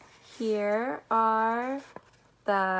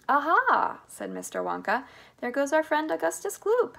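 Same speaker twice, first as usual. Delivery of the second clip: higher, louder gleeful exclamation; excited discovery; 6 semitones higher, 5 dB louder than usual. A narrator's reading. Wonka pointing out a departing child to Charlie, excited. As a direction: announce the sighting with lifted pitch and volume. Wonka spots Augustus in the story.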